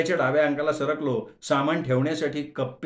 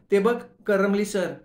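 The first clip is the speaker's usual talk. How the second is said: higher, excited whisper-like pointing out; gossiping college girl; 6 semitones higher, 3 dB louder than usual. Acted. College girl points out her professor, higher and excited. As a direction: nudge a friend, look who it is. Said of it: "ओळखीचा आवाज कानावर आला".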